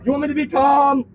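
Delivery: real angry shouting, words hammered out. Real, not acted. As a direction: yell it at them, fed up. Angry detainee yelling at officers.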